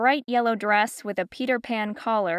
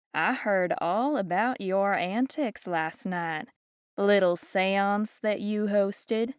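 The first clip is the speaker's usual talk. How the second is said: sly haughty lady; slower than usual. Acted. Geraldine needling Fiona about seance.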